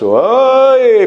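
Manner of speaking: high, loud "hey!"; hammed-up indignant yell; angry outburst. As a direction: burst out in mock anger.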